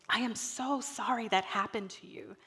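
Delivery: soft, sincere mom comforting; tender apology. Retold or imitated. Mom comforting hurt child.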